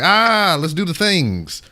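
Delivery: loud, high, drawn-out whoop; hammed-up eagerness, stretched out slowly; mock eager youngsters. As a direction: mimic overexcited kids bursting out. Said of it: "they're like".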